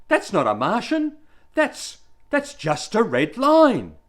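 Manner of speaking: high, loud schoolboy protest; blurted out. A narrator's reading. Confused pupil blurts out to teacher, high loud protest. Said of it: "I blurted out".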